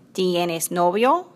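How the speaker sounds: drawn out, word by word; slow way down so she can follow. Acted. Juana asks again very slowly for Ana. Repeated for confused guest.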